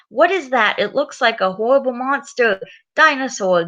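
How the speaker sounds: dolly's mock alarm. Peppa's dolly spots George's horrible monster, mock alarm. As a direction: play a doll spotting a monster.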